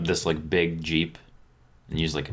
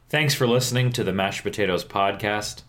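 mock podcast outro; 2 semitones higher than usual.

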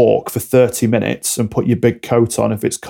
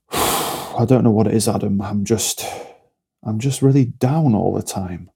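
downcast complainer; 3 dB quieter than usual. Acted. Client confiding in their coach, downcast. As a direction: sound slumped and defeated, trailing softer. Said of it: "you're speaking like this".

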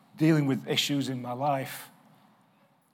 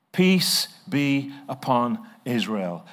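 slow solemn reading; 2 semitones lower, slower than usual. Shown as a demonstration. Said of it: "reading the verse again".

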